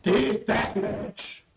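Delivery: amazed. Real, not acted. Amazed at damage.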